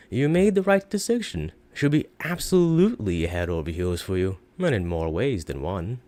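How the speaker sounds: hint at something naughty; suggestive. Acted. Shopkeeper teasing the departing buyer, suggestive and sly. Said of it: "he says with a suggestive tone".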